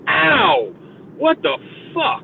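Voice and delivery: high, cry-like "Ow!"; hammed-up hurt cry; mock pain yelp. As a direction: yelp as if the recoil just hit your shoulder. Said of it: "I'm like".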